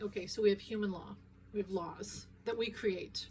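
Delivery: talking while the car shakes; on a bumpy road. Real, not acted. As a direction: voice jostled by a bumpy ride. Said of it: "Sorry about the shaking".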